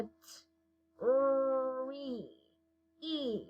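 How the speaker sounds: short T, held R gliding into E; sounding out. Shown as a demonstration. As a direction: sound out T, R, E slowly and softly. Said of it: "say what sounds or the letters we hear".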